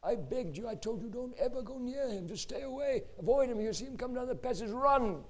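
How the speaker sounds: acting out a frightened manager; frantic fearful pleading. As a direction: plead with him to keep away. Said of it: "I'm in fear of my life".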